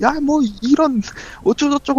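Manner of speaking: furious, high-pitched yelling.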